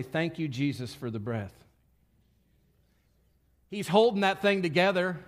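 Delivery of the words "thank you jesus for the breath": soft, low thanksgiving, fading out; quiet prayer. Shown as a demonstration. Preacher leading the room in a hushed, soft thank-you prayer. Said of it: "And now say".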